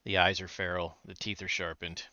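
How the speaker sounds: soft, low, ominous description; hushed horror narration, sinking in volume; game master scene-setting. Acted. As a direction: describe the monster with quiet dread. Game master describes eerie painting.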